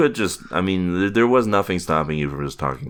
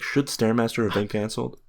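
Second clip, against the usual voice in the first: op-ed headline; 7 semitones higher, 3 dB quieter than usual. Retold or imitated. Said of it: "the op-ed the next day would be like".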